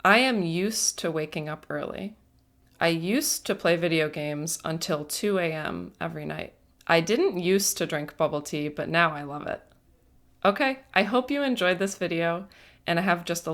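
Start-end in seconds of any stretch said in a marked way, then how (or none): 0.0-2.2 "used" said with a hissing s; careful demo sentence, "used to" as "yoose to". Shown as a demonstration. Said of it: "Listen to how I'm pronouncing the S". 2.8-6.5 "used" with a hissed s, not z; hissing S. Shown as a demonstration. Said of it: "Listen to how I'm pronouncing the S". 6.9-9.6 "used" with an unvoiced s; hissing S. Shown as a demonstration. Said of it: "Listen to how I'm pronouncing the S".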